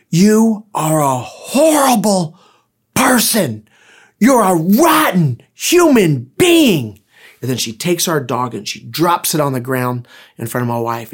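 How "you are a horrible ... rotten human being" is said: acted, very slow, swooping, drawn-out yell rising high. Recounting a woman confronting his wife over their dog: retelling a yell. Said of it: "and yells".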